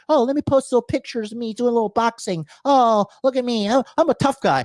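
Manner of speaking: mock tough guy. Mocking Instagram alphas.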